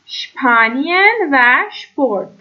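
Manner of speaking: شپانین و شپورت said slowly, each opening with shp; slow and clear, shp in both words; German sp as shp. Shown as a demonstration.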